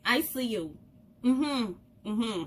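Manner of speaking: friendly hail. Retold or imitated. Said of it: "Be like".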